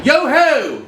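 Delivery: light, too polished pirate call; a prim attempt at pirate talk; fancy pirate voice. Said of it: "not so fancy".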